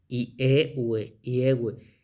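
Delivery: "I, e, u, e" first apart, then run together; pronunciation demo. Shown as a demonstration. Teacher showing students the Greek reading, vowels joined up. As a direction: blend the vowels "i, e, u, e" into a name. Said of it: "nos da la pronunciación".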